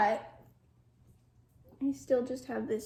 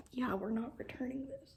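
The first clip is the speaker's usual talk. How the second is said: whisper; 7 dB quieter than usual. Real, not acted. Whispered vow to keep.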